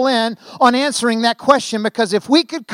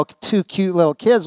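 put-on cooing at cute kids. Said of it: "you look at that little picture up there and you go".

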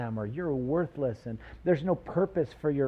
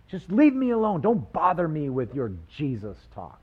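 higher, irritated dismissal; irritated brush-off; 3 semitones higher, 4 dB louder than usual. Retold or imitated. Preacher voicing an annoyed churchgoer. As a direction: wave off the Jesus talk.

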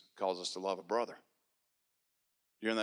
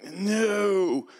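sharp high no, louder; flat refusal; 10 semitones higher, 6 dB louder than usual. Retold or imitated. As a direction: refuse it outright, pitched up. Dreads reading Bible on phone.

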